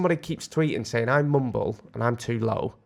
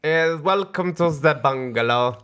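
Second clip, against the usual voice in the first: breathy vintage purr; 4 dB louder, slower than usual. Retold or imitated. Imitating parents' TV show host.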